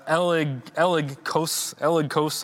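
"elegkos" sounded out haltingly, piece by piece; unsure pronunciation. Real, not acted. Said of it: "I don't even know how to pronounce that".

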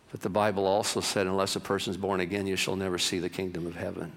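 low, soft, grave reading; hushed scripture quotation; solemn scripture quote. Acted. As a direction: drop low and read it like scripture.

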